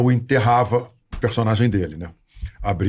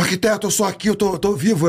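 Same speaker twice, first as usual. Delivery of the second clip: much higher, pleading stage voice; reassuring in character; 11 semitones higher than usual. Retold or imitated. Rubens reassuring the crying actor he's alive, higher pleading voice. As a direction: coax him that you're alive.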